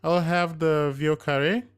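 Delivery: wife ordering her cocktail; smiling declaration. A narrator's reading. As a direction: declare it proudly with a smile. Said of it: "the smiling Navina declared".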